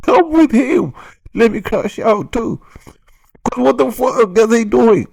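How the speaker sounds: high, loud hype yell; loud excited hype, yelling in agreement; hyped shout. Real, not acted. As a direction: crank it up and yell along like a hype man. Hyped rant reaction shouting along.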